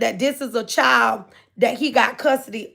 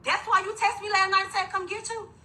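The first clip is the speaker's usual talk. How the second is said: crying; 7 semitones higher, 5 dB quieter than usual. Real, not acted. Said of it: "So I instantly went up crying".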